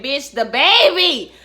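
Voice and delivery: alarmed. Retold or imitated. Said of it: "And I said".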